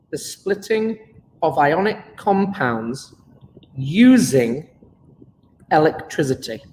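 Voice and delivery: slow, word-by-word dictation pace. Shown as a demonstration. Teacher dictating a definition for notes, slowly. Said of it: "and put this in your notes".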